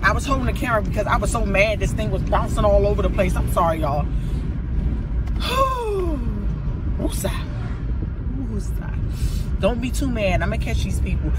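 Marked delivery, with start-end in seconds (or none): 5.4-9.6 long blown-out breath, then a slow "woosah"; self-calming exhale. Real, not acted. Calming herself with breaths while angry.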